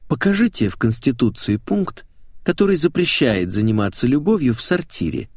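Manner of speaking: playful, lilting challenge; lightly flirt your way through the question; coquettish.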